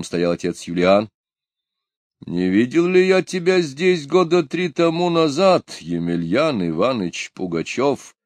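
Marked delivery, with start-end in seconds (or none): 2.2-8.2 serious question. A narrator's reading. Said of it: "серьёзно спросил старый сотник".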